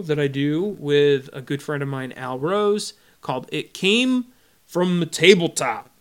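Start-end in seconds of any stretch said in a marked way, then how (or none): 3.5-5.9 spooky title. Shown as a demonstration. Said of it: "you're supposed to hear, like, weird".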